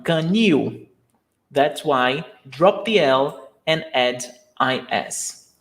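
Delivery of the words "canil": canil stressed on NIL; stress on last syllable. Shown as a demonstration. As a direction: lean on the second syllable of canil. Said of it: "The stressed syllable is the last one".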